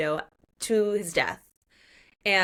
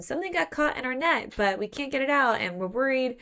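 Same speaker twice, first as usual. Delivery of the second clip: worried fisherman; 5 semitones higher than usual. Acted. Worried fisherman tells Axel the problem.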